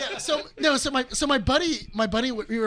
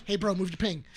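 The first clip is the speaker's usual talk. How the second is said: lower, restrained friendly request; politely nice; 5 semitones lower, 4 dB quieter than usual. Retold or imitated. Buddy asking Brian to move ping, nice and restrained. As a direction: keep it nice and low-key. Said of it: "trying to be as nice as possible".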